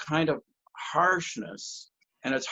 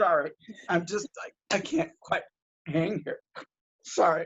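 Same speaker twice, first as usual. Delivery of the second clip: overcome, emotional, barely keeping it in; 3 semitones higher than usual. Speaker apologizes to the others on the call, emotional, struggling to hold it. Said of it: "I'm so fucking emotional".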